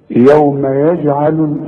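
very slow chant, bounced j in يجعل; qalqalah on ج. Shown as a demonstration. Teacher reciting a jim example, qalqalah in يجعل. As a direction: release the ج of يجعل before the ayn. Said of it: "أقلقلها".

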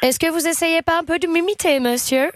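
put-on English accent. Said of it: "avec un accent british".

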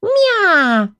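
высокий громкий кошачий вопль; заорать по-кошачьи; орущее мяуканье. Acted. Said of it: "вместо ответа заорала я". (кошка орёт на стражу: высокий громкий мяв)

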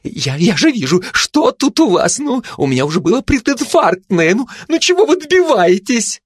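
very high, frantic little gossip dog. Acted. Gossip dog bursts in on the others, high and frantic. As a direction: spin around firing questions in panic. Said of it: "Сплетница в жутком возбуждении".

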